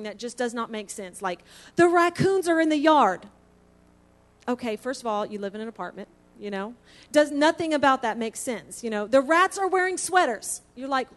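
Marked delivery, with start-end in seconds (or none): 1.8-3.3 sleepy nonsense. Retold or imitated. Mock sleep-talk quote. 9.1-10.6 sleepy nonsense. Retold or imitated. Mock sleep-talk quote.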